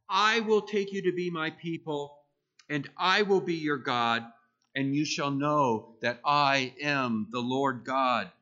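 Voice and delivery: loud, emphatic scripture quote; emphatic declaration. Acted. God declares his promise to the Israelites, loud and emphatic. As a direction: proclaim it as God's firm promise. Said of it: "consider how emphatically God declared to the Israelites".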